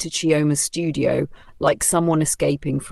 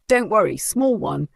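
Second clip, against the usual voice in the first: shouted reassurance; 5 semitones higher than usual. Acted. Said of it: "Kudi shouted".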